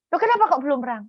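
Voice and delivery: high, loud mock wifely questioning; puzzled nagging wife. Wife asks husband why no victory, high puzzled voice.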